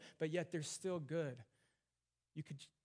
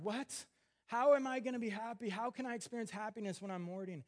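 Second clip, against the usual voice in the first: incredulous; 6 semitones higher, 5 dB louder than usual. Acted. Incredulous voiced listener.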